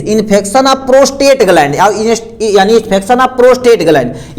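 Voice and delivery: very slow, each word separate; slow dictation. Shown as a demonstration. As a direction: dictate the definition slowly. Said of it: "अब next में लिखा".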